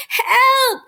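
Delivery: high, loud squeaked cry; squeaking for help. A narrator's reading. Mouse dragged toward the vacuum cries out, high loud squeak. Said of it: "He could not keep from squeaking".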